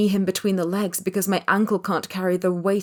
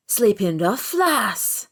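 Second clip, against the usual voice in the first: rasping beggar; 3 semitones higher, much slower than usual. A narrator's reading. The beggar speaks again.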